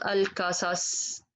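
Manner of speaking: "القصص" as a thin alkasas; light-letter mistake. Shown as a demonstration. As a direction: show "القصص" wrongly with light k and s. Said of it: "because all of them is heavy".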